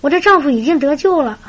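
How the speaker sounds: imitated relieved, joyful exclamation; sudden enlightenment. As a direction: rejoice as if it has just dawned on you. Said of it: "这个姊妹当时茅塞顿开".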